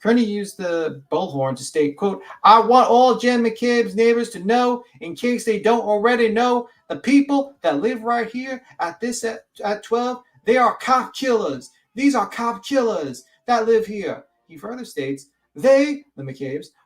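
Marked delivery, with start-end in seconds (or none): 2.4-14.2 high, loud, drawn-out Western proclamation; slow, raised bullhorn-style address; vigilante voice. Acted. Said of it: "that was my vigilante voice". 15.6-16.0 high, loud proclamation; a single word called out like a Western vigilante; raised Old West lawman voice. Acted. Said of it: "that was my vigilante voice".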